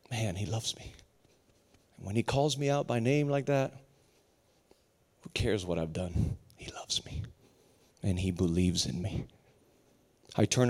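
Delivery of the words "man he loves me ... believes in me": very soft, low, near whisper; hushed awe. Acted. Preacher taking in God's love, hushed awe. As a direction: let it sink into a moved whisper.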